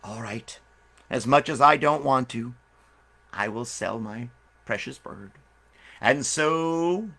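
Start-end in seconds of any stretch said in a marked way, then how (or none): 0.0-5.3 reluctant sigh. Acted. Owner reluctantly sells bird.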